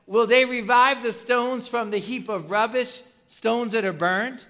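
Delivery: lightly mocking rhetorical question; mildly scornful, drawn out at the end. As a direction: pose it as an acted-out taunt. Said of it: "using that to kinda mock what they're doing".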